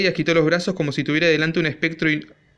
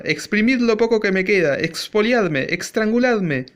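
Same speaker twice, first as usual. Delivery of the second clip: shrill shout; 5 semitones higher, slower than usual. A narrator's reading. Father yelling at his family over money, high shrill shout. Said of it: "gritaba con voz aguda".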